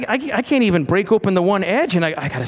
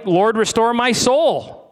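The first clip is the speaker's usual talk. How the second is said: mock prayer; 5 semitones higher, slower than usual. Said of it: "I wasn't praying".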